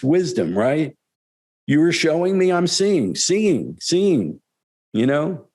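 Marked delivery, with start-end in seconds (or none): 1.7-4.4 lightly raised, earnest master's voice; a hint of the teacher answering kindly, a bit higher; lightly voiced guru reassuring a student; Gurudev. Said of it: "quoting Gurudev's reply".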